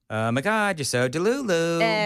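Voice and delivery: put-on slow bubbly sorority girl; ditzy Valley Girl gush. Shown as a demonstration. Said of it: "I'm gonna do it".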